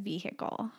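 "vehicle" with a sounded H, vee-HICK-ul; H pronounced. Shown as a demonstration. Wife defending her habit, "vehicle" with the H sounded. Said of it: "I pronounce the H in it".

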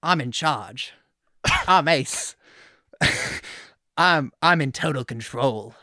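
badly faked British accent, slow cocky boast. Co-host mocking a cocky contestant in his confessional, bad British accent. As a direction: try a British accent and miss, drifting toward Australian. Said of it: "gonna be a bad British accent".

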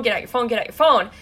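fast, repeated urgent demand. Retold or imitated. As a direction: rattle it off, retelling a frantic order. Retelling frantic demand to husband.

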